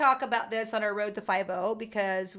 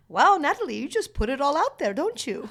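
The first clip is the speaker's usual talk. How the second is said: higher-pitched, proper English dad impression; mock English accent; 4 semitones higher than usual. Host quoting co-host's dad to her, rough English accent. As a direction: imitate a proper Englishman, half-convincingly. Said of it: "supposed to be an English accent".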